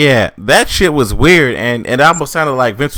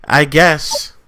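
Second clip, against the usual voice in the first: high, soft reluctant okay; doubtful acceptance; 8 semitones higher, 3 dB quieter, much slower than usual. Retold or imitated. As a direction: concede it without being convinced. Retold unconvinced reaction to the booking.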